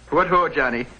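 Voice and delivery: put-on Irish accent. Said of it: "Except for me Irish mother".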